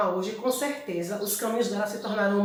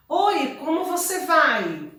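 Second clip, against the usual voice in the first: question intonation; 5 semitones higher, 3 dB louder, slower than usual. Shown as a demonstration. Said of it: "se eu quero dizer".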